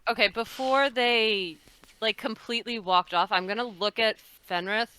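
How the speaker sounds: ordinary talk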